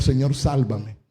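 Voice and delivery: low, soft, humble plea; hushed prayer. Acted. Congregation member praying to the Lord, hushed plea. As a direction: pray it quietly, pitched right down. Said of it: "necesitaremos decirle al Señor".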